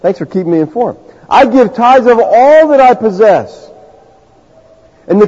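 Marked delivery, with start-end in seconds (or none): 0.0-1.0 dry sarcastic God. Retold or imitated. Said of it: "Like God's go". 1.3-3.7 puffed-up slow declaration; slow pompous boast. Retold or imitated. Pharisee listing his virtues, slow pompous voice.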